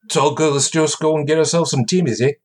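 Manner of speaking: lightly put-on Canadian hoser accent; bad hoser accent. Host joking with his Canadian co-host, mock hoser accent. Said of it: "hoser accent I've ever heard".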